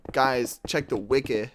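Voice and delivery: a hint of a rapper impression; lightly put-on rapper delivery, short-i "wiki". Shown as a demonstration. Streamer trying out viewers' pronunciation, slight rapper sound. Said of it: "I sound like Drake when I say that".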